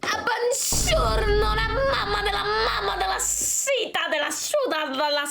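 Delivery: high, slow hammed-up Italian accent; forced Italian accent, high and slow. Shown as a demonstration. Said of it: "Essaye de faire l'accent italien".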